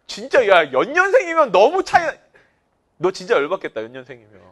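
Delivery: high, loud, worked-up sympathy; excited sympathy. Real, not acted. Sympathizing with student. (흥분해서 크게 공감하는 말투)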